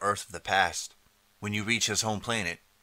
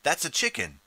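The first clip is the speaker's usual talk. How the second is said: high-pitched, incredulous exclamation; surprised protest; 6 semitones higher than usual. Acted. Time traveler objecting to the Emperor, high surprised cry. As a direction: point it out with a jump up in pitch.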